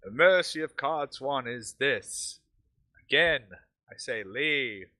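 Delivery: slow, commanding villain proclamation; penetrative villain voice. Acted. Villain calls to the party from forty yards, penetrative voice. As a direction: proclaim it slowly so it carries across the yard. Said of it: "He's got penetrative voice".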